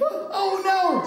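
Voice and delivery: gasp, then high mock-frightened cry; hammed-up fright, high-pitched; acted fear. Showing officials how to react to the fire, acted fear. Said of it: "act like you're afraid".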